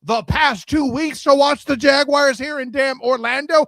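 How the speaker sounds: loud, exasperated rant; loud sharp voice. Real, not acted. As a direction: vent it loudly to a friend. Venting about finding the game.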